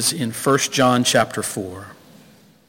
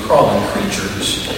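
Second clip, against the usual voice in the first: gentle correction; 5 semitones lower than usual. Acted. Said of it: "in that tone of voice".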